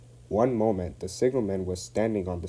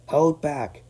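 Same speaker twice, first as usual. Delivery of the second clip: higher giggly; giggling; 7 semitones higher, 6 dB louder than usual. A narrator's reading. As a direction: giggle it to each other. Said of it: "giggled the trucks".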